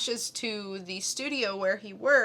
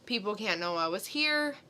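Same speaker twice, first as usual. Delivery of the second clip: mild mock panic; 5 dB louder than usual. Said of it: "freaking out like".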